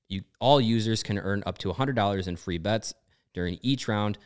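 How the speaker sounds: sponsor read. Acted. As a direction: read it like a radio spot. Host reads sponsor ad.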